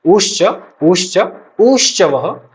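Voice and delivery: उश्च with its opening u short, then long, then longest; chanted-out उश्च, its first vowel growing longer; vowel lengthened stepwise. Shown as a demonstration. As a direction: stretch the u of उश्च further each time. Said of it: "क्रमाद ह्रस्व दीर्घ प्लुत".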